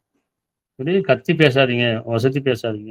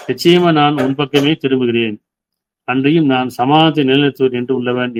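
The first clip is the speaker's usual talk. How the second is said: prayerful recitation. Acted. Preacher recites the son's prayer to God, earnest and measured. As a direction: read it like a man praying to God.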